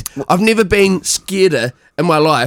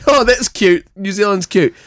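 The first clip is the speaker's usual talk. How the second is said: mock dismissive; 2 semitones higher than usual. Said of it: "be like".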